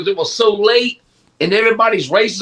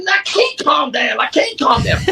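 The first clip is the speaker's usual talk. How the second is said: higher, slowed, frantic protest; retold panic; 6 semitones higher than usual. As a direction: act out refusing to calm down. Retold panic, refusing to calm.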